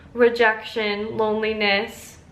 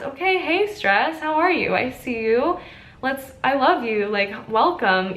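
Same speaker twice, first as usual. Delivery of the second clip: cheery welcome; 3 semitones higher than usual. Pretend. Greeting stress like a guest.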